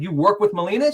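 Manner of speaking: high, loud disbelieving echo; surprised question. Retold or imitated. He hears his crush works with Barbara, high surprise. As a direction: pounce on the name in disbelief. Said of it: "I'm like".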